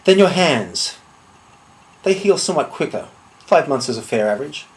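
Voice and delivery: deliberate threat with long pauses; measured menace. Acted. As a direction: list each threat coolly, letting it land. Threatens a duel opponent, item by item.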